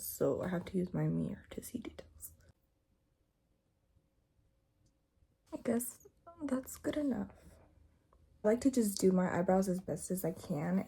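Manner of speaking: hushed whisper, house asleep. Real, not acted. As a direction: whisper softly. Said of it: "If I talk a little soft".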